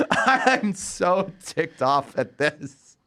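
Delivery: slow, laughing through the words; amused at own anger; giggling mock outrage. Real, not acted.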